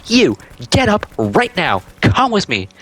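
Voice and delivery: mock teacher's order, word by word; stern teacher.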